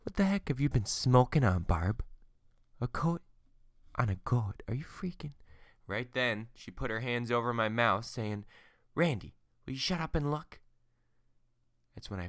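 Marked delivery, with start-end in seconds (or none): 0.0-5.3 louder, higher disbelieving outburst; husband mocking his wife's goat story; incredulous husband. Husband scoffs at wife's claim. 8.9-10.6 exasperated wife. Acted. Wife silences husband.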